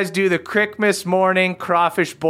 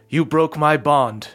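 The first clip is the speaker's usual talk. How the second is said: griffin voice; 2 semitones lower than usual. Acted. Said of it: "and he goes".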